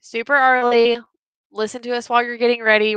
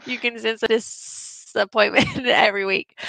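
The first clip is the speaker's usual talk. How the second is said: halting read with stretched words and giggles; lightly hammed-up tipsy delivery; mock tipsy reading. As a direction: read it out like a drunk typist. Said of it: "read this just like you typed it".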